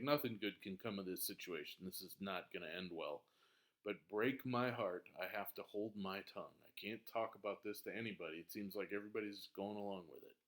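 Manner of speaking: low, soft resigned; quiet despair. Pretend. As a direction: murmur it hopelessly. Hamlet's despair paraphrased.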